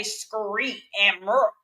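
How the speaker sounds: "screet" with a k sound after the s, "murk" drawn out; regional pronunciation. Shown as a demonstration. Showing listeners how some Memphis people talk, regional pronunciation. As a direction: stretch out "screet" and "murk" as local slang. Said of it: "they used to say".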